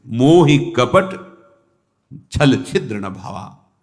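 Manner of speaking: slow, weighty scriptural quotation; mildly emphatic quote. Retold or imitated. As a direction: lean on कपट, drawing the opening out slowly. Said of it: "भगवान एक बात बड़े जोर से कह रहे हैं".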